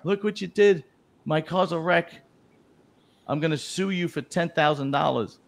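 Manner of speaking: high-pitched irate rant, no real shouting; mock yelling. Gay guy to straight driver after the crash, mock yelling. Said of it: "he starts yelling at the straight guy".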